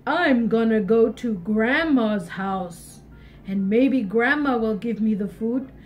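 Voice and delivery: scheming wolf. Acted. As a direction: think it through like a cunning wolf. Wolf plotting.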